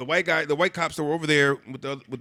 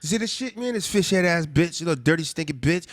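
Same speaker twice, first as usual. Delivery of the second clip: mock rant; 4 semitones higher than usual. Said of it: "and he's like".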